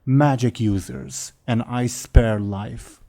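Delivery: slow, broken dragon speech; a hint of a menacing dragon. Dragon speaks.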